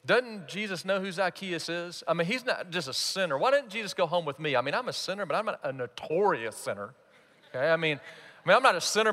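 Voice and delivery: mildly indignant crowd member; acted petty complaint, understated; resentful. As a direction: grumble self-righteously about someone else. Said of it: "you can just hear the resentment".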